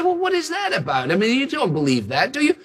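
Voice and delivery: high, scoffing doubter's voice; sceptical mocking. Preacher mimicking sceptics about calming the storm, scoffing. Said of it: "People say".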